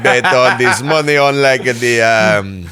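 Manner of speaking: lightly voiced Greek grandpa; a grandpa griping about blackjack, lightly Greek; Papu's Greek accent. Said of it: "listening to Papu".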